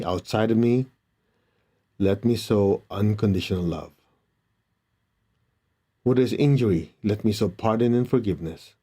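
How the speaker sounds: measured, reverent prayer reading; prayer recitation. Acted. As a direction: recite it as a blessing. Reciting Saint Francis prayer.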